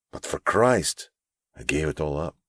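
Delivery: lightly voiced gentle older mentor; a hint of a kind, pleading elder; earnest mentor. Narrator voices Abram.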